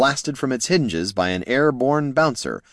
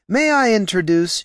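high gnome voice; 12 semitones higher, 4 dB louder than usual. Acted. Flynn retries introduction.

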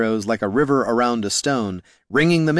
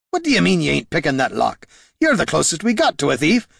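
gruff warrior voice; 6 semitones higher than usual. Acted. Gorm argues.

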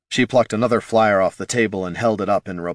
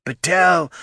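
mocking older man; 10 semitones higher, 4 dB louder than usual. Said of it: "unflattering impression of an older man".

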